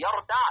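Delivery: يرتع with an "a" after the ta; fatha on ta. Shown as a demonstration. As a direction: say يرتع as yarta', open vowel on the ت. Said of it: "بفتح التاء".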